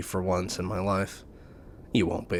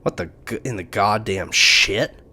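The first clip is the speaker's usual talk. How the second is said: caught off guard; 5 dB louder than usual. Acted. Micah caught sneaking, startled and loud. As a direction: stammer out in alarm.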